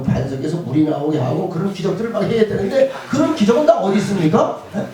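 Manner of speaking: acted indignant questioning of God; mildly aggrieved challenge; arguing, challenging. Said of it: "이렇게 따집니다".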